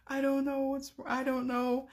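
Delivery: imitating the boy. Voicing the boy's mumbling reply.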